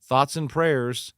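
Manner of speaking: mock platitude, high, loud and drawn out; shallow sympathy. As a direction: stretch it out as hollow, mimicked comfort. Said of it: "they've been shallow".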